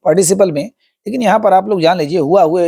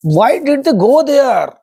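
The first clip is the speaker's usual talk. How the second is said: tense voice; 6 semitones higher, much slower than usual. Acted. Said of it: "in the tensed voice".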